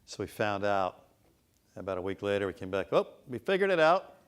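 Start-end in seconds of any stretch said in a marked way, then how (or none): 2.9-4.1 excited discovery. Retold or imitated. Consultants announce discovery.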